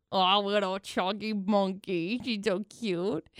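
drawn-out adoring murmur; cooing. Real, not acted. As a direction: coo slowly over a cute pet. Cooing over photo of chunky pet.

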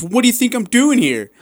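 high, incredulous cop voice; a mocking take on an annoyed officer; mock exasperated cop. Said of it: "And he goes".

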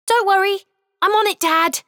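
put-on kind, eager little boy voice, pitched high; a boy happily helping out; kindly. Boy reassuring his overwhelmed dad, kind and eager. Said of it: "said Arthur kindly".

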